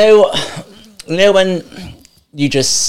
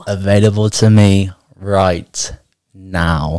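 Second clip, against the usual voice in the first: slow affirmation; much slower than usual. Shown as a demonstration. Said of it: "repeat after me".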